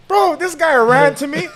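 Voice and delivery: high-pitched, loud disbelief; excited storytelling. Real, not acted. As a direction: exclaim it at the climax of your story. Excited climax of his story.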